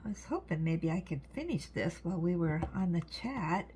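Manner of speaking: stuffy, nasal voice from a blocked nose. Real, not acted. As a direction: talk through a slightly stuffed nose. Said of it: "I'm getting nasally".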